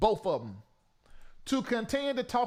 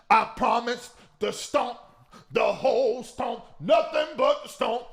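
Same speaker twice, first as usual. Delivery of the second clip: emphatic; 5 dB louder than usual. Real, not acted. Vowing to spite the singer.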